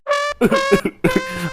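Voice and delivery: high-pitched comic sobbing; whimpering wail. Acted. Husband told he will burn with Ravan, whimpering. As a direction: whimper in self-pity.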